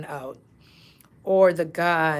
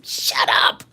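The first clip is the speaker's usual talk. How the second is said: loud, forceful retold silencing; mock outburst; 6 semitones lower, 6 dB louder than usual. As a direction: imitate someone urgently cutting a colleague off. Retold colleagues silencing the speaker.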